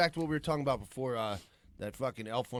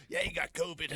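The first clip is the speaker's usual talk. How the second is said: very high squeaky taunt; high mock voice. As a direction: jeer it way up high. Mocking the excuse.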